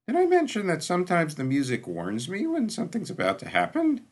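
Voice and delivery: high-pitched worried character voice; nervous companion. A narrator's reading. Jurten nervously warns Shah.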